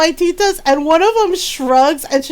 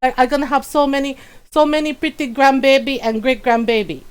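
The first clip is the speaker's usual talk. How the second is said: put-on grandmother's accented English. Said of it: "Just like".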